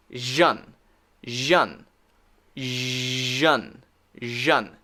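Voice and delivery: "jeune" as voiced "zhun"; buzzed zh plus "un" for "jeune"; S-I-O-N sound. Shown as a demonstration. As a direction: say "jeune" like the end of vision. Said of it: "when you see S I O N, we'll say".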